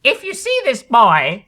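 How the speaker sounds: high, loud, urgent warning; ballerina's urgent warning. Acted. Ballerina warning the television audience, high and urgent. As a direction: sound the alarm to the viewers.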